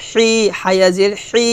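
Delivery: a long, thinly articulated হি; thin articulation. Shown as a demonstration. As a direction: keep the হি sound thin, not full. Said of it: "চিকন করে বলতে হবে".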